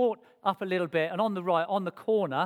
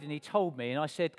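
normal talking voice

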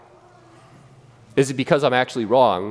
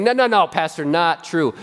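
mock protest; 3 semitones higher than usual.

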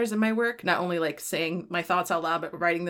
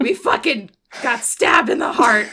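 laughing; 8 semitones higher, 9 dB louder than usual. Real, not acted. Laughing joke about bleeding.

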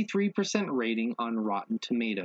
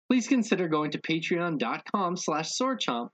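ordinary talk, nothing marked

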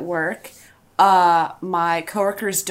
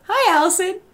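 put-on little girl voice; 10 semitones higher, 3 dB louder than usual. Child greeting imitated.

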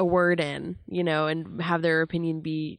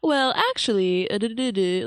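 smug "Well, actually" then babbling nonsense, a bit louder; mock a know-it-all cutting in; mansplainer parody; 2 semitones higher, 3 dB louder than usual. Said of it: "the mansplaining thing".

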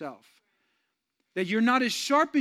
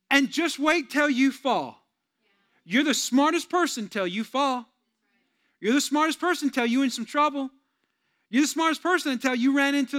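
emphatic warning; 8 semitones higher, 7 dB louder than usual. Real, not acted. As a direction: hammer the warning line by line. Preacher warning the proud.

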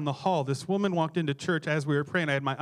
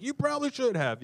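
mock sheepish Pete; 11 semitones higher than usual. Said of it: "Pete's like".

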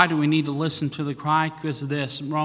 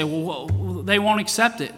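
higher-pitched mock protest; raised-pitch excuse, quoting a doubter; imagined objection; 4 semitones higher than usual. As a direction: voice a hesitant listener's objection. Voices the congregation's objection.

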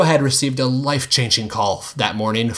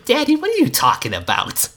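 put-on much higher sweet girl voice; innocent little girl; 12 semitones higher than usual. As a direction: feign innocence to dad. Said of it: "innocent scrunch of her nose".

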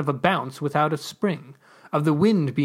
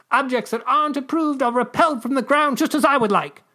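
high, louder smug villain voice; 11 semitones higher, 4 dB louder than usual. Acted. The ambassador gloats about repelling objects, smug villain voice. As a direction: relish every word like a villain.

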